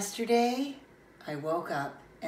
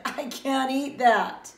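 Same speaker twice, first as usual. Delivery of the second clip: louder, higher, drawn-out complaint; mild crying protest; 6 semitones higher, 6 dB louder, slower than usual. Acted. Child refuses the egg at breakfast, mock tearful. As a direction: wail it a little, word by word. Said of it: "I cried and cried and said".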